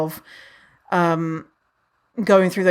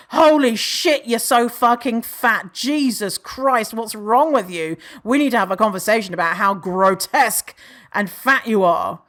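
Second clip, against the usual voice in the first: mock horror; 2 semitones higher than usual. Girls reacting as Samantha walks in, mock horror. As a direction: exaggerate the girls' scandalised disgust.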